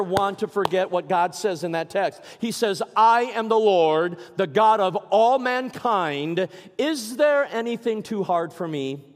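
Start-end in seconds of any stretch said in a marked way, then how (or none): 2.9-9.1 slow, loud, weighty divine voice; voice of God. Acted. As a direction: speak as the Lord himself, solemnly. Voicing God from scripture.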